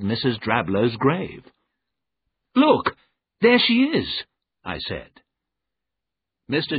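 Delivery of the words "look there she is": high, loud exclamation; urgent cry, pitched right up; urgent pointing out. Acted. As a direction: call out a sudden sighting. Narrator points out the ghostly woman.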